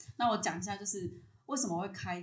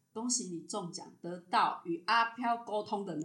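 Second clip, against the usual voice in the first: quoting the master through laughter; laughing quote; 5 dB louder than usual. Retold or imitated. Retelling the master's verdict to the host, laughing as she says it. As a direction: deliver the news while laughing.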